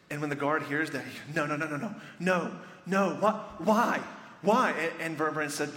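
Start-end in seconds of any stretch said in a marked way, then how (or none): 1.3-4.7 acted dismay. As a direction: build from protest to an upset plea. Guard's reaction to the arrest.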